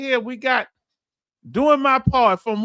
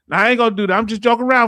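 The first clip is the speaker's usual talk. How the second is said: said again, louder this time; louder repeat; 6 dB louder, much faster than usual. Retold or imitated. Telling the woman he's only joking, louder. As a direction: punch the repeat up loud. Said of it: "repeats the same lines louder".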